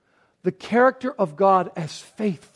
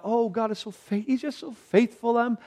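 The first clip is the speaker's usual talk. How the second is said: mock blessed talk; 4 semitones higher than usual. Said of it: "go around thinking about".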